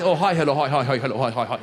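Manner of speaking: descending mock greeting; bowing greeting.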